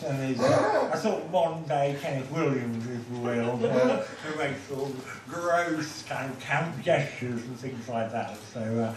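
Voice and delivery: lightly voiced camp comedian; lightly camp stand-up parody; Alan Carr. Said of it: "talks a little bit like this".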